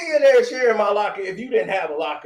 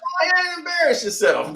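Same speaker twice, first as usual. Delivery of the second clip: dismissive; 6 semitones higher than usual. Retold or imitated. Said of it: "That's all I was like".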